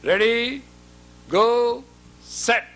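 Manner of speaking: high, loud call of ready, go, set; shouted countdown to the room; loud start call. Real, not acted. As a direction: call the count out across the hall. Calling the start to the audience.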